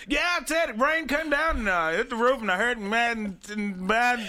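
high, half-shouted grandpa impression; old granddad voice. Granddad quoted on phone.

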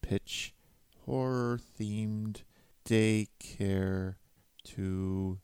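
hushed note-to-self aside; muttered aside. Acted. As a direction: mutter it under your breath. Muttered aside after promo.

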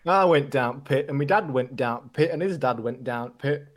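slow, broad Yorkshire accent, lightly hammed; mock northern accent. Joining his friend's northern accent joke, slow mock Yorkshire accent. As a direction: drawl out a mock northern miner.

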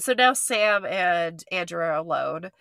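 blocked nose from allergies; stuffy nose. Real, not acted. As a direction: talk through a stuffed-up nose. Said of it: "I know I sound stuffed up".

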